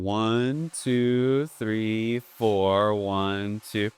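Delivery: counting the beats out slowly; steady slow count over the brushes. Shown as a demonstration. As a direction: count one to four evenly, in time. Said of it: "I'm going".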